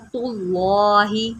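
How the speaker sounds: तुल्लाहि with a thick full ल; heavy lam. Shown as a demonstration. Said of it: "लाम को भी मोटा करें".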